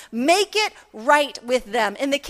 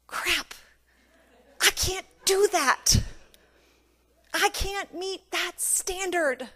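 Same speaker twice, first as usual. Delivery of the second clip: hushed, halting admission of defeat; acted soft, discouraged realization; quiet dismay; 4 semitones higher, 6 dB quieter, slower than usual. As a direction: voice a sinking first thought, softly. Voices hearers' dismayed first thought.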